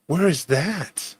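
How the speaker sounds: drawn-out, softly scornful question; imitating a snooty punk; disdainful. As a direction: stretch it out with mock disdain. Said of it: "He says it with this disdain".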